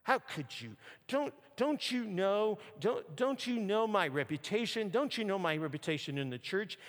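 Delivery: a deacon's anger climbing as he speaks; angry father. Retold or imitated. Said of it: "his voice began to rise and his anger began to boil".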